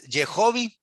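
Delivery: Yehovi read out with an o and a final i; "Yehovi" as the pointed Hebrew would sound; vowel-pointed reading. Shown as a demonstration. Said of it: "le da esa pronunciación".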